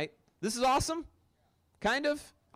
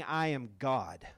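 quiet solemn claim; 8 semitones lower, 5 dB quieter, slower than usual. Retold or imitated. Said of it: "He was saying".

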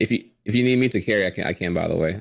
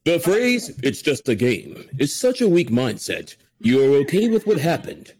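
epic. Retold or imitated. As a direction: declaim it like a grand movie hero. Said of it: "he sounds epic when he says it".

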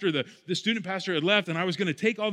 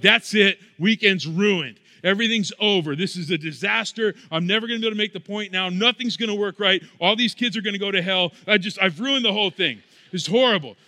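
louder, hammed-up panicked wailing; mock despair; 4 dB louder than usual. Youth pastor retelling his camp disaster, hammed-up louder despair. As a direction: play the overwhelmed youth pastor melting down. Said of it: "this is how I'm feeling".

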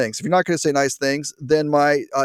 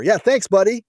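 higher, mocking thank-you; sarcastic thanks; 6 semitones higher than usual. Real, not acted. Host mocking the bureaucrat with a higher, sarcastic thanks. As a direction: thank him with dripping sarcasm.

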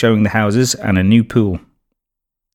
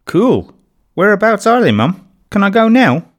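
high, bright and keen; lightly voiced excited child; eager girl; 10 semitones higher than usual. A narrator's reading. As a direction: bubble over wanting to go now.

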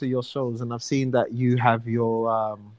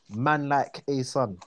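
South London slang; 4 dB quieter than usual. Shown as a demonstration. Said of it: "we would say".

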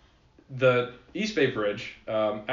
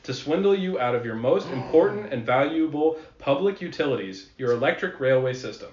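put-on old-timey voice; 3 semitones higher, 5 dB louder than usual. Shown as a demonstration. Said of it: "I should read this in the old-timey voice".

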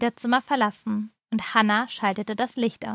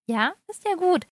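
higher, cheerful concession, no real laugh; cheerful giggly; 6 semitones higher than usual. A narrator's reading. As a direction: give in happily, lifting the pitch. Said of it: "kicherte sie fröhlich". (fröhlich, leicht kichernd)

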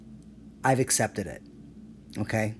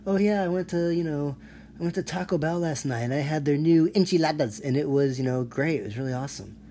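higher, chirpy mock of an eager white guy; white person mock; 4 semitones higher, 3 dB louder than usual. White person chatting about Taco Bell enchiladas, mock eager voice. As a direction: lightly send up someone showing off. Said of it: "they just hit you with the".

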